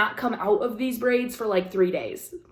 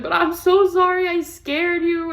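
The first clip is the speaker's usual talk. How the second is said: imitated apology; 9 semitones higher, 5 dB louder than usual.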